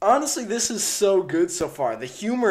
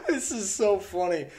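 laughing; 5 semitones higher than usual. Real, not acted. Reactor laughing at sketch.

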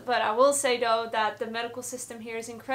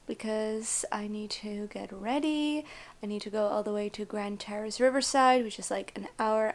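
whispering. Real, not acted. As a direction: whisper it so nobody wakes. Whispering at bedtime.

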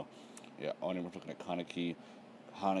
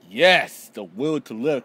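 louder, higher burst of triumph; excited cheer; 6 semitones higher, 16 dB louder, slower than usual. Real, not acted. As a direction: cheer the hero on. Cheers on the character while reading.

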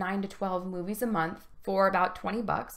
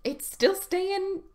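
put-on leering wheezy old man; 10 semitones higher, 3 dB louder, much slower than usual. Shown as a demonstration.

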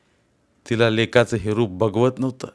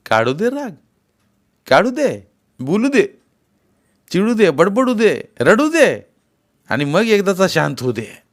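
resigned inner thought; 9 semitones higher, 4 dB louder than usual. Acted. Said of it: "असा विचार करून म्हातारी चुपचाप बसली".

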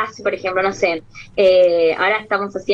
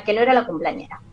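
ordinary delivery

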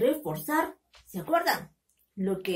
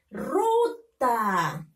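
ruta read with long vowels and little gap; teacher reading ruta connected, falling at the end; syllables joined. Shown as a demonstration. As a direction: blend "ruta" into one stretched word. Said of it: "Ahora tenemos que leerlo".

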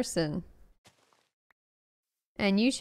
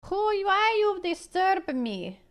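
high, drawn-out put-on protest; mock indignation; 8 semitones higher, slower than usual. Streamer answering whoever messaged them, mock indignant. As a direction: whine it slowly in a put-on voice.

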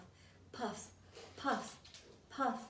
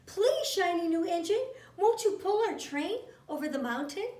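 pleading clown; 2 semitones higher than usual. Acted. Clown begs the passenger engine.

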